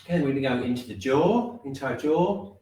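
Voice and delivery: measured meditation guidance with long pauses; unhurried, spacing out each body part; guided body scan. Real, not acted. Teacher leading class inward from top to toe, guided body scan.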